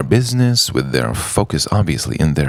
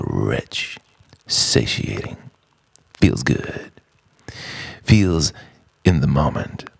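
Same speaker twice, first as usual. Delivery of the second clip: guided imagery; 3 semitones lower than usual. Acted.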